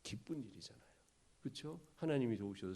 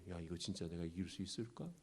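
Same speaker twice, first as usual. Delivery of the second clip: low, hushed self-questioning; inner doubt; 4 semitones lower, 9 dB quieter than usual. Acted. Gideon wondering in his heart whether he can win, doubtful. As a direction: murmur it to yourself, unsure. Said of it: "이런 마음이 없었을까요?".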